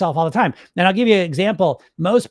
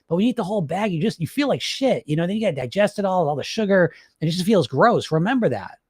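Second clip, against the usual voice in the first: supportive coach. Retold or imitated. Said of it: "The coach voice".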